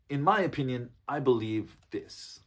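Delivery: stronger, direct, but not rude; firm opinion. Shown as a demonstration. Coach models a direct opinion for English learners, firm. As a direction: state it firmly, deliberately slowing at the end. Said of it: "a little stronger, in other words".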